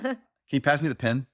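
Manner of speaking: "pen" said like "pin", with a short i sound. Shown as a demonstration. Showing a friend how he says "pen" as "pin", a light demo. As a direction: give a quick demo of saying "pen" as "pin". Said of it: "I'll sometimes say, like, pin instead of pen".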